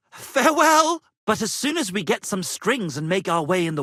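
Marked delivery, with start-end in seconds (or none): 0.1-1.0 grand farewell. Acted. Grand theatrical parting.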